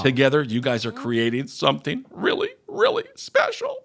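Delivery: overdone squeaky sentiment on the last words; mock-sincere, sarcastic. Host reading a fan's praise to co-host, sarcastically. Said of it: "don't say it sarcastically".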